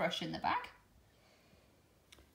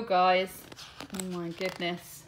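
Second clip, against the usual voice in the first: usual speaking voice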